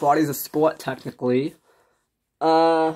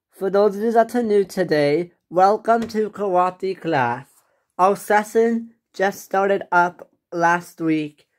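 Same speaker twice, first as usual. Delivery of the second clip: lightly formal class announcement; karate instructor; 3 semitones higher than usual. Acted. Instructor welcoming new students, lightly formal. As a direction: address a whole room in measured phrases.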